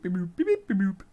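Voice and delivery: lightly sung beeps; beep boop imitation. Shown as a demonstration. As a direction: chirp the beeps like a machine. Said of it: "imitating the beep noise".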